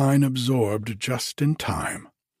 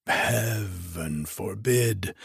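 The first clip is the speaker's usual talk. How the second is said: slow, recoiling exclamation; a mild shudder in a slow voice; 3 semitones lower, slower than usual. Acted. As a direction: recoil from the thought, drawing it out. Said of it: "he exclaimed with a shudder".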